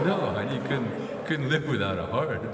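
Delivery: slow and gently explaining; calm him down slowly; mock-patient vet voice; gentle, slow reply. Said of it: "I go".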